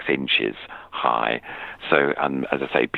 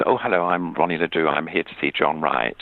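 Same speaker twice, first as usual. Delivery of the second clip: mock posh voice; 2 semitones higher than usual. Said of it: "I put on this posh voice".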